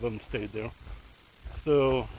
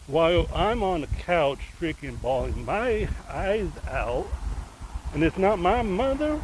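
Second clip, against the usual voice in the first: real outrage; 5 semitones higher than usual. Real, not acted. Telling viewers how she cried while he didn't, with real outrage. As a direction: vent in disbelief, fast and heated.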